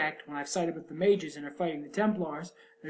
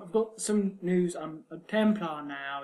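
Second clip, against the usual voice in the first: mild mock announcement; slower than usual. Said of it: "He's not even like".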